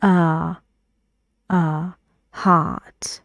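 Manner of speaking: heart with an open ah vowel; British model of heart; model word heart. Shown as a demonstration. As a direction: say uh, then heart with the tongue back up. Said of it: "We say, like".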